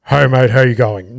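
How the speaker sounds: lightly put-on macho country voice; deep macho voice. Comedian matching the barman's country manliness, deep macho voice. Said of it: "like, a deep fucking macho voice".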